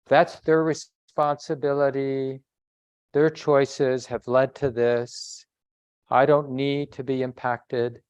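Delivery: slow, lilting, detached sing-song; sing-songy voice. Shown as a demonstration. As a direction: float the words like nothing touches you. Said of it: "that sing-songy voice like I'm using".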